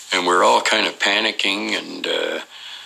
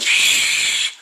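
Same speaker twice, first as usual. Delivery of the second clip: long shush, then whispered word; urgent voiceless hush; retold shushing; 7 semitones higher than usual. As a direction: imitate a group hushing someone. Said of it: "And everybody went".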